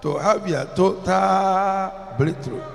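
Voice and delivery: loud, slow drawn-out call; slow sung-out preaching call. Real, not acted. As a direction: stretch it out and lift the crowd. Preacher building to prayer call.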